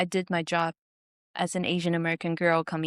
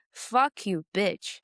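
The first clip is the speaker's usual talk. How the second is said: muttered mock insult, barely raised; retold heckler insult; slower than usual. Heckler swearing at her from the next room. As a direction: toss off the heckler's parting jab. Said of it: "I heard him from the room going".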